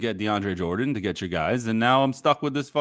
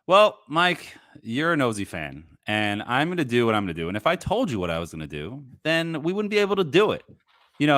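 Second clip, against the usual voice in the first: playing Sean Marks; 4 semitones higher than usual. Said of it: "Alex, you're Sean Marks".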